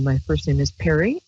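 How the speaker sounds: ordinary talk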